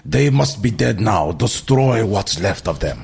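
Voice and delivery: slow mock alien accent; Trade Federation guys. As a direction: drag out a villain's order in stilted foreign accent. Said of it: "like, the Trade Federation guys".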